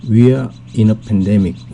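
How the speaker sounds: slow, clear English model sentence; slow clear classroom English; slow teaching read. Shown as a demonstration. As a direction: read it out slowly for learners. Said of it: "그 something이 뭐냐 하면".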